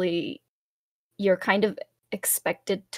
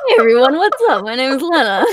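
cute anime streamer; 5 semitones higher, 9 dB louder, much faster than usual. Acted. VTuber's on-stream intro greeting.

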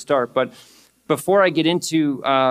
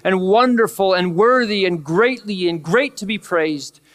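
raised, awestruck voice of worship; adoring prayer; 5 semitones higher than usual. Acted. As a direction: lift it up in awe of God. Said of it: "There's adoration where it's just like".

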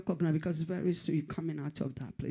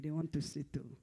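quiet aside; 7 dB quieter than usual. Acted. Preacher mocking tired enemies.

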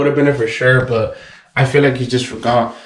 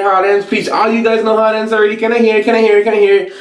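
hyped sign-off; 6 semitones higher than usual. Real, not acted. Sign-off hype to viewers.

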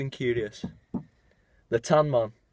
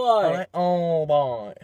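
mock English accent; 5 semitones higher, 4 dB louder, much slower than usual. Mimicking posh English greeting.

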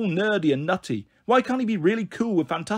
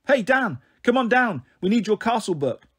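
calling out; 6 semitones higher than usual. Acted. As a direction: sing out to him from below. Sister calls up from the grounds.

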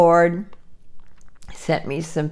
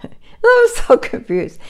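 laughing; 5 dB louder than usual. Real, not acted. Laughing at her own mix-up.

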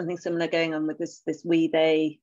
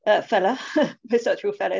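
slipping into an Essex accent with a laugh; 4 dB louder, faster than usual. Real, not acted. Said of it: "that was my Essex accent coming out there".

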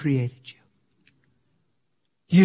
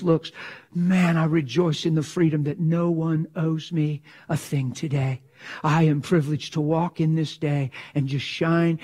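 softer, intimate prayer voice; quiet prayer. Shown as a demonstration. Believer alone with God, soft sincere prayer. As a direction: pray it alone, gently. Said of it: "You get alone in God".

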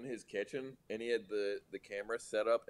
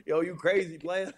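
Guy Fieri impression; 8 semitones higher, 7 dB louder than usual. Guy Fieri bit continues.

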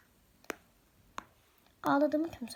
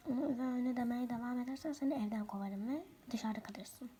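whisper; 7 dB quieter than usual. Acted. Threatening in whisper.

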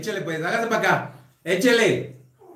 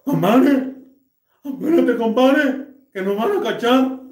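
higher nasal gangoso plea; urgent nasal whisper-call; 4 semitones higher than usual. Retold or imitated. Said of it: "el compadre que estaba afuera le dice".

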